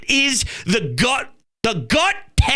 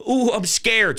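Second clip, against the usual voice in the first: sarcastic; 2 semitones higher than usual. Retold or imitated.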